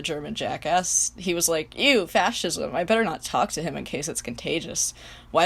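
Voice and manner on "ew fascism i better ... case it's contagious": put-on spoiled teenager voice. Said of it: "my, like, spoiled teenager voice".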